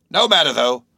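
rambling sailor stranger; eccentric old sailor, dismissive. A narrator's reading. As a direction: wave it away as a cranky old salt.

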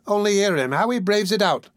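high-pitched woman's appeal; young woman crying out. A narrator's reading. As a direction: call onlookers to witness, pitched high. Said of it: "cried the young woman".

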